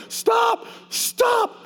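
high, shouted begging; pleading shout. Retold or imitated. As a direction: cry out for it to stop. Begging the Lord to stop.

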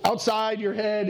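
ordinary talk, nothing marked

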